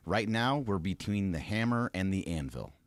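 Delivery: slow, weighty reading of a quote; dramatic quote reading. Shown as a demonstration. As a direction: read it slow and grand. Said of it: "I'm gonna read it to you here".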